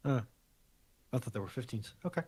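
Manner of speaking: ordinary talk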